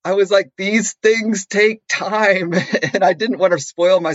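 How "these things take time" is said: slow, strained, higher-pitched retort; acted restraint, teeth clenched; through gritted teeth. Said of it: "saying through gritted teeth".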